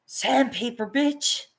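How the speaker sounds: high yelp of mock surprise on oh; mock shock. Imitating herself putting socks on, mock surprise. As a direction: squeal like the socks scraped. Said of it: "I'm reminded".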